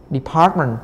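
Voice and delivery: "Department" stressed on PART; second-syllable stress. Shown as a demonstration. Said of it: "rồi âm hai nè".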